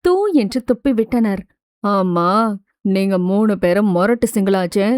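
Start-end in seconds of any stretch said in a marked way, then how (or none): 1.8-4.9 put-on low, doubtful young man's voice; suspicious male classmate. A narrator's reading. Classmate wonders why three single girls ask about love, suspicious. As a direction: drop the pitch and question them warily. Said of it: "என அவனும் சந்தேகமாக கேட்டான்".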